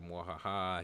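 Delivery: mwahaha; mad scientist laugh. Retold or imitated. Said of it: "he was like".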